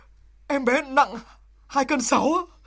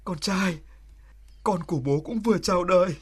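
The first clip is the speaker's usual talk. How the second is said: tender; 5 semitones lower than usual. Acted. Border soldier speaking tenderly to his newborn son. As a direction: speak gently, holding back feeling.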